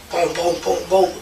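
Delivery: mock knocks in evenly spaced booms; imitated door knocking. Telling the interviewer what woke the house, imitated knocking. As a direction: sound out the banging on the door.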